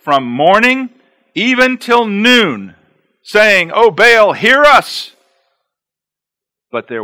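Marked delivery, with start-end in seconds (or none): 0.0-2.8 drawn out. Shown as a demonstration. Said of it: "watch this". 3.2-5.2 high, loud plea to Baal; hammed-up cry of Baal's prophets; mock pleading cry.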